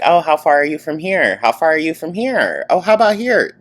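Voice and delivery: high-pitched mock questioner; mocking, singsong-high impression of viewers; imitating nosy viewers. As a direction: mimic prying people in a high, put-on voice. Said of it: "When I hear people like".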